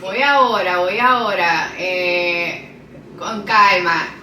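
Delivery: put-on Puerto Rican accent. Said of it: "Do a Puerto Rican accent".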